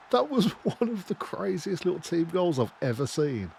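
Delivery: high, loud amazement settling by the end; gush, still buzzing from screaming; thrilled disbelief. Real, not acted. Gamer marvelling at his team's goal, thrilled disbelief.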